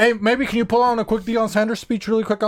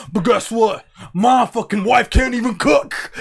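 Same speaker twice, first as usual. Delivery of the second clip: mock David Goggins; 3 semitones higher than usual. Mocking Goggins yelling at people while running. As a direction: bark at the joggers as a trainer. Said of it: "Show him how he runs".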